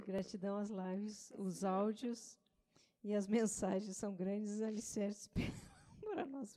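reading through giggles; stifled laughter breaking the words; laughing while reading. Real, not acted. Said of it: "De novo, agora tu não vai me interromper".

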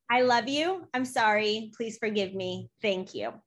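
each phrase set apart and given its own weight. Shown as a demonstration. Host asks her to repeat the mantra, so slow deliberate recital. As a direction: recite the four lines deliberately, one at a time. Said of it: "Wait, again, and slower".

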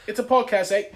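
Canadian take with a tacked-on "eh"; mock Canadian accent. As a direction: say it like a chirpy Canadian. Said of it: "A Canadian kid came into the bank".

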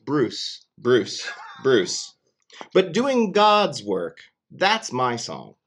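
rhythmic rhyming recitation; poem reading. Pretend. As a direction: read it like a grand poem. Reads the groundhog's rhyming scroll.

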